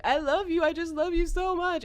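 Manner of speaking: very high imitation of a sobbing man; mock sobbing. Contestant sobbing to his girlfriend, retold as a high mock wail. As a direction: wail it mockingly, as if in tears. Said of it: "he just starts sobbing and being like".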